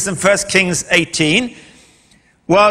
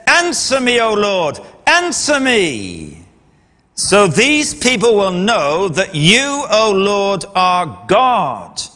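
pleading prayer; slower than usual. A narrator's reading. Elijah asks God to answer him, pleading prayer. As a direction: call on God slowly, letting the phrases stretch. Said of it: "and he prayed".

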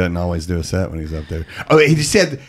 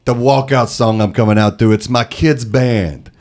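Dice impression; 4 semitones higher than usual. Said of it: "I'm doing a terrible Dice".

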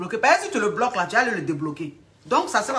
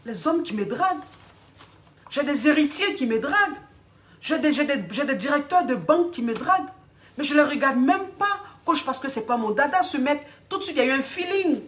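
raised pitch, proud protest; offended boasting; 3 semitones higher than usual. Acted. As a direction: boast to the coach out of hurt pride. Client boasts of suitors, offended.

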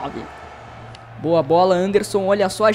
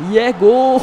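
explosive goal commentary; 6 dB louder than usual. Real, not acted.

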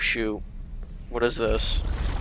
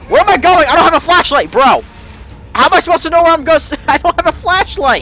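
scared horror game streamer; 5 semitones higher, faster than usual. Real, not acted. Being chased in horror game.

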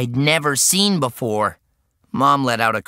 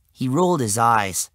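put-on high, loud, drawn-out kid whine; put-upon kid, loud and high; exasperated boy; 7 semitones higher, 4 dB louder, slower than usual. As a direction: complain slowly in a boy's high voice. Exasperated boy speaks to police.

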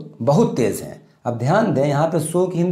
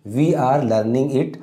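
slow dictation; much slower than usual. Shown as a demonstration. Teacher dictating model sentence.

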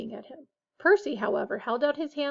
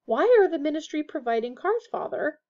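higher, formal questioning; dignified; 5 semitones higher, 4 dB louder than usual. A narrator's reading. Percy asks his father again, dignified. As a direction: ask with stiff dignity. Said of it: "asked again in a dignified voice".

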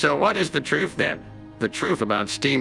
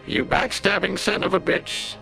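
angry yell; 12 semitones higher than usual. A narrator's reading. Chalmers in chains yelling at Skinner for betraying him. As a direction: spit the insult at the traitor. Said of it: "Chalmers yelled".

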